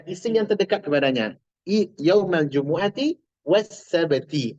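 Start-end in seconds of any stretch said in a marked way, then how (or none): 2.0-4.5 yaumal jumu'ati was sabati, slow, both nouns ending "i"; bacaan contoh. Shown as a demonstration. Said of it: "Ah, gitu". (yaumal jumu'ati was sabati pelan, akhiran kasrah)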